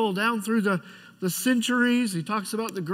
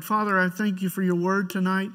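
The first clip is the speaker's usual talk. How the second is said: prayer; 3 semitones lower than usual. Acted. Pastor leads opening prayer.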